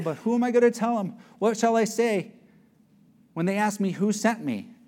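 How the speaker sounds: questioning Moses. Acted. Acting Moses questioning the Lord.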